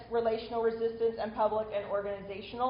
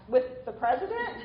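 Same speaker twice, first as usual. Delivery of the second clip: mildly puzzled check-back; puzzled question; 3 semitones higher than usual. Retold or imitated. Retelling a teenager asking about the White House meeting, puzzled. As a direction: ask it as if you didn't get it. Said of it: "I really didn't get it. So I asked".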